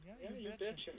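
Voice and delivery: put-on Minnesota accent. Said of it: "Big fan of Fargo?".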